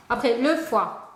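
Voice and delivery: le foie said slowly like a dictation. Shown as a demonstration. Spelling lesson, dictating the next word slowly. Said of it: "écris-moi le foie".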